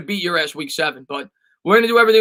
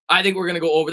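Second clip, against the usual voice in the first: deliberate voice crack mid-phrase; 3 semitones lower, faster than usual. Shown as a demonstration. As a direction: let the voice crack on purpose. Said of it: "That was an intentional voice crack".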